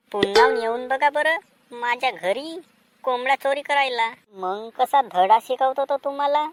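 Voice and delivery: loud scolding threat; angry warning. Acted. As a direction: warn them never to come back. Owner scolds fleeing thieves.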